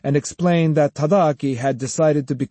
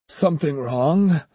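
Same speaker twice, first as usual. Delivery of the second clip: "Something wrong?" echoed with dry doubt, falling; skeptical echo; 4 semitones higher than usual. Acted. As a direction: toss the words back, mildly amused. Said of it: "shook his head and chuckled".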